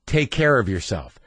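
goodbye heavy with implication; hint that there is bad news behind it; understated, ominous send-off; loaded tone. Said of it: "Did you hear my tone just then".

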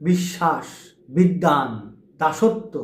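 বিশ্বাস said "bish-shash" with a doubled sh; doubled consonant examples. Shown as a demonstration. Teacher demonstrates the doubled sounds. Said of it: "কীরকম?".

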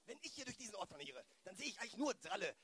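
ordinary delivery

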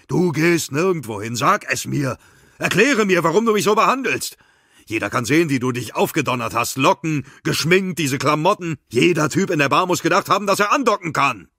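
high, loud jealous yelling; furious shout. A narrator's reading. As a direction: roar the accusations at her, full force. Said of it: "Magnus brüllte los". (wütendes, lautes Brüllen, hoch und schnell)

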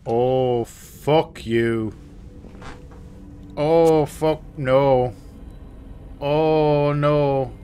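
loud, high wails of refusal; loud dread. Real, not acted. Gamer refusing to face the horror ahead, loud dread. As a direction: drag out each horrified protest.

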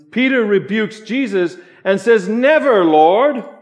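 loud, high sermon delivery; preaching at full force. Acted. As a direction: proclaim it to the whole congregation. Peak of sermon.

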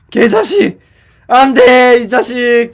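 furious cursing. Acted. Tricked heroine cursing the queen, furious shouts. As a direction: spit out the curses.

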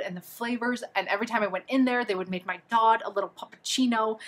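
ordinary talk

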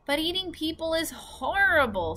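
put-on high, upset little girl. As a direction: protest it as the girl. Sophie's voice, upset.

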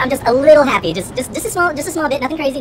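high, small voice holding back glee; giddy understatement. Real, not acted. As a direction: squeeze the excitement into a tiny voice. Playing down wild joy.

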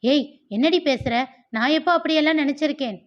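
shocked, rushing denial; indignant outburst. Acted. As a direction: Satya jumps up and protests loudly and fast. Sisters-in-law quarrel.

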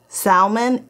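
salmon with the L sounded out; mispronounced salmon. Shown as a demonstration. Correcting someone's pronunciation, salmon with a sounded L. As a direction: say salmon as SAL-mun, L and all. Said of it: "is not correct".

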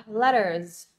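"letters" ending in a voiced Z; final Z sound. Shown as a demonstration. Teacher models the ending for students, final Z sound. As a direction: end "letters" on a buzzed z. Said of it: "mình sẽ đọc là Z ha".

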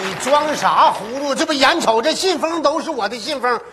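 indignant. Acted. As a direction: call out the cover-up. Confronting partner over missing money.

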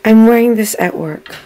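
loud, incredulous protest; shocked disbelief. Retold or imitated. Woman realizing she's wearing this at work, loudly shocked. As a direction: replay the shock at full volume. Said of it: "I mean, I was speechless".

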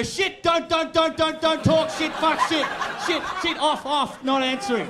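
high, loud, frantic repetition; mock panic. Driver scrambling when certain friends call on speaker, in loud mock panic. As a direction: stammer out urgent warnings in acted panic.

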